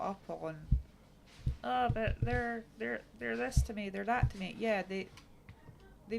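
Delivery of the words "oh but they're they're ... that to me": louder, raised voice of mock objection; mock protest. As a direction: imitate someone making excuses for family. Mimics people excusing their relatives.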